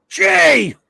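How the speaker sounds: high, loud hail to a friend; excited shout. Real, not acted. Hailing a newcomer to stream.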